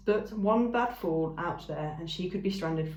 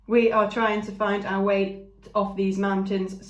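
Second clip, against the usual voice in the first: slow, even, louder robot; 6 dB louder than usual. Shown as a demonstration. Robot explaining to the ram, slow and even. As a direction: speak like a calm machine. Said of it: "Let me try that again".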